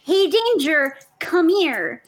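calling out in character. Acted. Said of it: "Ruby calling the creature".

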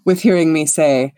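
grand, boastful self-introduction, drawing out the praise; self-important bard. Acted. Vain bard announcing himself to a fellow performer, grandly. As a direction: savour your own magnificence.

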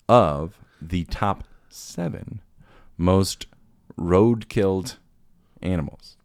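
slow, drawn-out quiz host delivery; host building suspense; dramatic quiz read. Acted. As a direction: stretch each word like a game show host.

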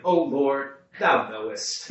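a light hint of a fading Brooklyn accent. Old priest reading at the Easter Vigil, light Brooklyn accent. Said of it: "recovering Brooklyn accent that he had".

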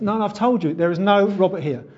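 firm, exasperated phone reply; mildly annoyed. Acted. Stranger to a repeat wrong-number caller, mildly annoyed.

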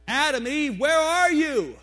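loud, high searching call; God calling through the garden. Acted. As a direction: call out for someone hidden, voice rising high.

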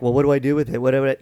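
mock bafflement. Mimics baffled reaction to jargon.

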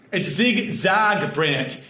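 zigzag drawn out slow with broad a; Kentucky zigzag. Shown as a demonstration. Friends correcting his zigzag, slow and broad. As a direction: teach him zigzag slowly. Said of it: "You don't say zag".

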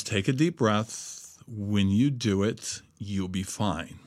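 a hint of a slow, soft, soothing friend; quietly easing a panicked friend; calm reassurance. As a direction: gently talk him down, slowly. Friend calms him on phone.

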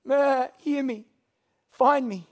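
high, loud desperate bleat; bleating sheep. Acted. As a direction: cry out like a trapped sheep. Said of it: "It's bleating for its life".

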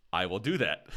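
half-laughing; chuckling through it. Retold or imitated. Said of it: "In, like, the most bitch American accent you can believe".

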